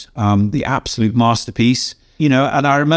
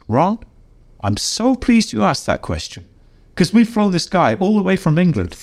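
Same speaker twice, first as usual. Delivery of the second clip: quoting Julie; 8 semitones higher than usual. Retold or imitated. Julie voiced, smooth corporate reply.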